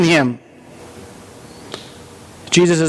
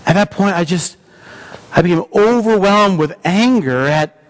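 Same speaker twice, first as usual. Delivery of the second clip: penitent thief retelling the crucifixion, awed and moved; repentant thief; 2 semitones higher than usual. Acted. Preacher voicing the thief on the cross, awed. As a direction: speak as the thief who met Jesus, hushed wonder.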